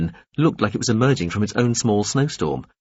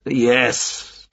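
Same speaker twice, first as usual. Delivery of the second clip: shout; 3 semitones higher than usual. A narrator's reading. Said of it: "Veppers shouted".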